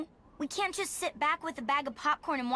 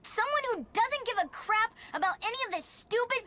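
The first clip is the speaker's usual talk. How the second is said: pitched up, hot and defiant; defiant outburst; 5 semitones higher than usual. Acted. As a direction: push back hard at a stubborn mother. Daughter defies stubborn mother.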